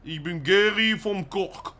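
slow, drawn-out disguised voice. Shown as a demonstration. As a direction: stretch the words to mask your voice. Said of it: "Mach mal nochmal". (verstellte Stimme)

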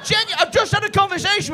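laughing. Real, not acted. Comic mocking guest, laughing.

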